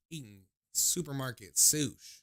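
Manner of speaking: talking while chewing sushi; words round a bite of food; mouth full. Real, not acted. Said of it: "shouldn't talk with my mouth full".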